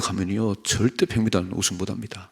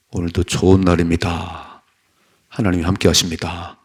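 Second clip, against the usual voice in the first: firm declaration; 3 semitones lower, 6 dB louder than usual. Shown as a demonstration. Preacher showing how to greet the morning, firm loud declaration. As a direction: declare it loudly, drawing the words out. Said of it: "이렇게 선포하셔야 됩니다".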